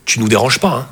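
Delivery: low gentle motherly voice; mother at the door. Retold or imitated. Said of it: "Et elle est là".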